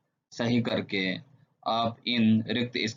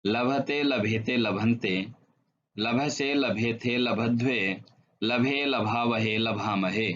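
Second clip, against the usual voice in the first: grouped in threes. Shown as a demonstration. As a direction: recite the verb forms in threes. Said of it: "जोड़े में इनको याद करेंगे".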